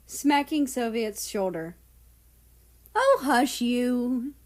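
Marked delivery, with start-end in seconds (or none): 2.9-4.3 giggly hush. Acted. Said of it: "Nazi giggled".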